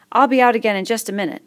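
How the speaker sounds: worried schoolboy asking; fat boy voice. Acted.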